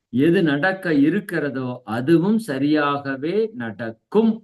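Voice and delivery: slow, measured verse delivery; scripture recitation. Acted. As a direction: recite each phrase slowly and deliberately. Recites the Gita lines to the class. (நிதானமாக கீதை வாசகம் ஓதுதல்)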